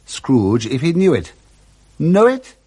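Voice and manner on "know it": surprised. Acted. Scrooge astonished.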